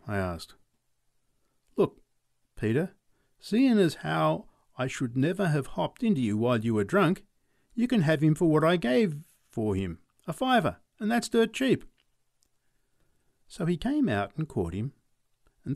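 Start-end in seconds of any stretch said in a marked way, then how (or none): 1.8-11.8 higher, lively sales talk; horse seller. Acted. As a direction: sell the horse hard. McLeod offers a deal.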